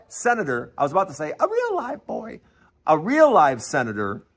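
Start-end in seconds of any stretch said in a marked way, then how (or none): 1.4-2.4 Pinocchio quote. Pretend.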